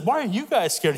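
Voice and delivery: mild retold indignation, lively pitch swings; getting angry. David challenging his scared brothers, mildly angry imitation. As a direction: imitate someone getting worked up, without raising volume. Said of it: "He's, like, getting angry".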